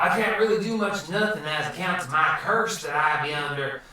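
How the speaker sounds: rambling surfer-dude voice; Finding Nemo turtle. Acted. Wizard explains his limits to guests, dude voice. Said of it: "You should be the turtle from".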